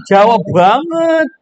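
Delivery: slow, stretched Javanese-accented "banget". Shown as a demonstration. Teacher teasing the class, drawn-out Javanese accent. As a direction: lean into a thick Javanese b. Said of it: "kalau begitu Jawa banget".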